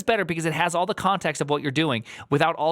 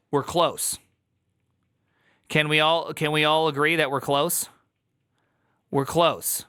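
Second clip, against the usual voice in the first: T J impression. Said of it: "That was a great T J impression".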